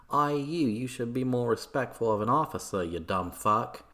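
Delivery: hammed-up angry officer; indignant rebuke. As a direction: tell him off as an affronted soldier. Acted soldier rebuking the apprentice.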